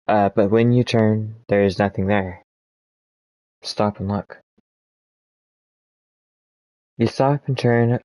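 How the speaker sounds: measured gamebook narration voice; story narration. A narrator's reading. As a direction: read the adventure text like a storyteller. Reads the gamebook text aloud.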